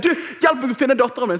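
high, loud re-enacted appeal; urgent plea for help. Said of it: "og så sier jeg".

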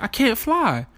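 put-on high, small voice of a crying three-year-old; little daughter voice. Dad imitating his upset little girl calling for him in a high voice. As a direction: pitch up into a tiny child whimper.

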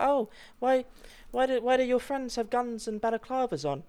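high-pitched questioning wife impression; puzzled wife. Wife questioning husband about friends' balaclavas, mock-puzzled.

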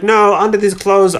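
put-on quoting the princess in a hinted Italian accent; mock Italian accent. Host quoting the princess, a hint of Italian accent. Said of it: "I don't know why I'm doing an accent".

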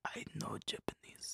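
slow, hushed mock Japanese accent. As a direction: claim it softly in a put-on Japanese accent. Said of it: "speak with the Japanese ... accent".

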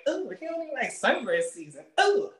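high, mocking woman's voice; mock offended lady. Host mimicking a female viewer, a high mock scoff. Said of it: "they like".

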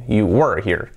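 "were" as "wur" with a heavy r; very strong R. Shown as a demonstration. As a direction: lean on the R in "were", low pitch. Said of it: "con la R muy fuerte". ("were" con la R muy fuerte)

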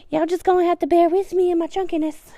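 high, loud laughing voice. Real, not acted. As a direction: push it out through laughter. Laughing self-mockery.

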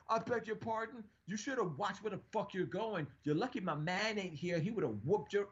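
woman on the train mocking the guy, loud; mock loud retort. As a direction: throw his words back at him, mocking. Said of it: "she was loud".

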